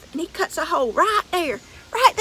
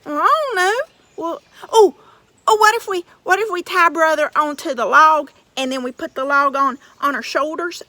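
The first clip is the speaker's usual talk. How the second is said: simple giant twins; 4 dB louder than usual. Acted. Twins plan, still voiced.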